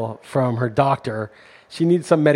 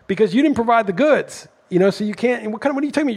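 much higher, exasperated retold rant; pitched-up indignant disbelief; indignant outrage; 7 semitones higher than usual. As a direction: replay the outrage at the billing clerk. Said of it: "I'm like".

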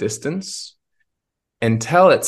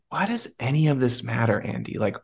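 higher, pressing inner voice asking why; inner voice, questioning; 4 semitones higher than usual. Retold or imitated. A voice inside him at the cafe, higher and pressing. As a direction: let the tired inner voice push the questions. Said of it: "I heard a voice in me say".

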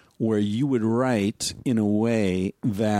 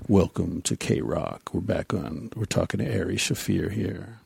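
late night radio dj; 3 semitones lower than usual. Shown as a demonstration. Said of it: "that late night D J voice".

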